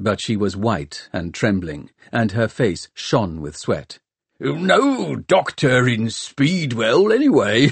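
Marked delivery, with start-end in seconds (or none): 4.4-7.7 slow, laughing, "no" drawn out. Rayland answering Hester Shaw about a doctor in Speedwell, laughing. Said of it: "laughed Rayland".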